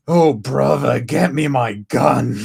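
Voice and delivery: slow mock outburst; SpongeBob fish. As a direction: exclaim it like an indignant cartoon fish. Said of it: "I hear that as that one fish from SpongeBob".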